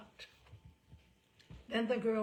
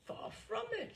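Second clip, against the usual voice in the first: cordially; 13 semitones higher than usual. A narrator's reading. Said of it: "Effingham cordially".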